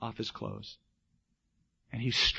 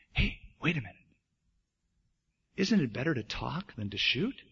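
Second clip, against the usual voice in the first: gently coaxing, a little softened; lightly voiced soothing bear; soft, soothing bear; 4 dB quieter than usual. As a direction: talk the hunter down softly. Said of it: "the bear spoke softly, soothing voice".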